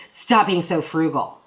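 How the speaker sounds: playful mock scold; goofy. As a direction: toss it off as a silly inside joke. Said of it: "we just kind of goofily".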